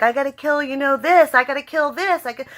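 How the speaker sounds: complaining Negan. Retold or imitated. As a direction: grumble it like a fed-up boss. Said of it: "Negan was complaining the whole time".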